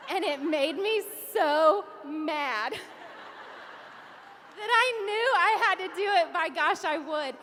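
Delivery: loud, emphatic surge of determination; fired-up retelling. Retold or imitated. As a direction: push it out like you're still fuming. Recalling anger at mom's doubt.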